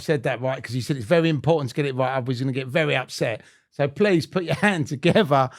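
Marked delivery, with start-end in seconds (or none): 3.7-5.5 big, loud, high build-up of the guest's name; announcer introduction. Real, not acted. Host hyping the guest to listeners, rousing announcer. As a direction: stretch the name, then soar into the welcome.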